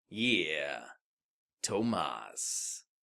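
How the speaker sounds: very low, soft, slow, deliberate over-enunciation. On a podcast, a host starts talking in a slow, enunciating put-on voice. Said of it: "I'm going to talk like this".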